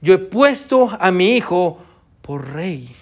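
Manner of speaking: lightly voiced reassuring God; God speaking. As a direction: speak as God calming the people. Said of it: "Dios le dice".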